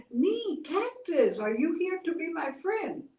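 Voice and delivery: high, pleading voice of a lonely cactus; a lonely cactus pleading, a touch tearful; lonely crying cactus. Acted. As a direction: beg for a friend, close to tears. Cactus answers Coyote.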